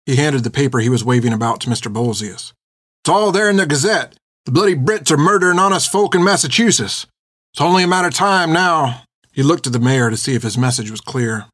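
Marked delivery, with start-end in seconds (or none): 3.0-9.0 high-pitched, urgent herald's proclamation; riled-up rider calling out news; agitated messenger. A narrator's reading. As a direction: proclaim grave news to the crowd. Rider rousing the crowd.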